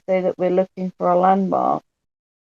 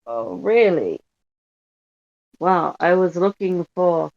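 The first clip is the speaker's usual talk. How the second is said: attempted French accent slipping into Russian; a slightly botched French accent, Russian-sounding; French accent gone Russian; slower than usual. Player as French tourist asking police the way, accidentally Russian-accented. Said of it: "sorry, it's gone Russian".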